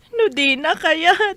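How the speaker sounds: slow, weeping plea; tearful. Acted. Daughter tells father she cannot be forced, crying. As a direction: drag the words out through tears.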